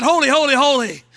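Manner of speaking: loud proclaimed triple holy; a hint of angelic cry; seraphim's cry. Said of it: "Seraphim cried".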